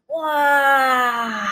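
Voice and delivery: high awed wow; children's wow. Retold or imitated. Children awed by the lion's roar, a high wow. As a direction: gasp in awe like kids. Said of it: "the children just went".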